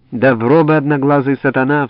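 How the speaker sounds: громкий сердитый вскрик свояченицы; выкрикни обиду голове в лицо. Acted. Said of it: "вскричала она". (громкий возмущённый вскрик)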